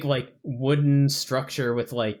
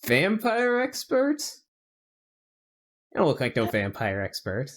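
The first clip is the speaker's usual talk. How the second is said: put-on southern accent. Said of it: "he's getting a southern accent".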